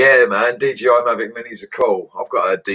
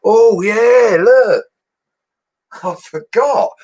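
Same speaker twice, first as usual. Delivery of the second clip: sudden excitement; 14 semitones higher, 7 dB louder, much slower than usual. Real, not acted. Suddenly remembers new spatula.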